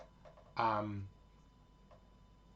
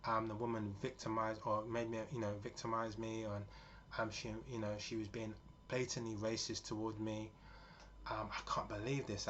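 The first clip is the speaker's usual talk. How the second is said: upset; 5 dB quieter than usual. Retold or imitated. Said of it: "she starts crying".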